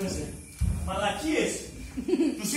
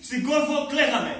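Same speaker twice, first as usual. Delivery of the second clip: raised, higher voices of mother and son arguing; hiss-shout it like in a theatre seat; mother and son bickering; 5 semitones higher than usual. Retold or imitated. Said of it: "να φωνάζει". (μάνα και γιος λογομαχούν στο θέατρο, ανεβασμένη φωνή)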